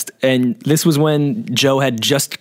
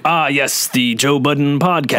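slow, hesitant naming of the show; drawn-out, halting reply; retold hesitation; 2 semitones higher, slower than usual. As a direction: imitate someone stalling before a plug. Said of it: "I heard your hesitation".

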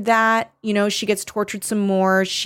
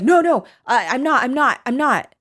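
higher, stammered mock protest; acted panicked denial; 6 semitones higher than usual. Prisoner realizing her slip to the French girl, acted flustered denial. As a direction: backpedal in a high, flustered retold voice.

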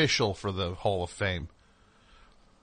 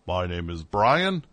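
slow, low start swooping up on the name; mock a podcast host's rehearsed sing-song introduction; sing-songy host intro; 4 semitones lower, slower than usual. First host announces himself to listeners, mock sing-song intro. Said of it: "sing-songy second".

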